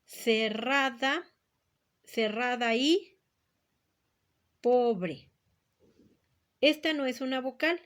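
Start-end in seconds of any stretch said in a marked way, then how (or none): 0.0-5.3 slow, deliberate syllable reading; slow counting read. Shown as a demonstration. Teacher reading the next line slowly to count syllables. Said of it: "Vamos a la siguiente".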